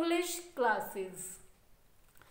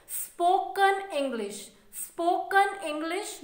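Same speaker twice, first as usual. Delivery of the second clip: स्पोकन इंग्लिश, स्पोकन said first and stressed; correct word order. Shown as a demonstration. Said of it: "एक correct format में".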